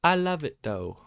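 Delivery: high, loud burst of joy; squealing delight. Real, not acted. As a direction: squeal it out with glee. Excited trader loving the loss.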